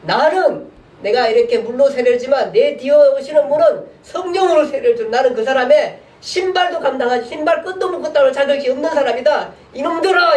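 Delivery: John the Baptist proclaiming to the crowd, building shout; crying out. Retold or imitated. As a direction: build to a fiery cry. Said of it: "이러면서 외치고 있을".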